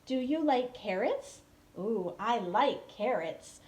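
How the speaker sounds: slow, friendly prop questions; slow teacher prompt to a young student; teacher demo. Shown as a demonstration. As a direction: coax a young learner with props. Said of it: "and I'll be like".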